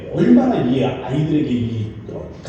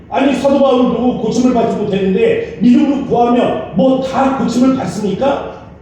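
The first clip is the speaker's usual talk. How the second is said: raised, challenging protest; arguing; 8 semitones higher, 3 dB louder than usual. Retold or imitated. The student confronting the visiting pastor, raised and arguing. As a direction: press the pastor point by point. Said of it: "따졌답니다".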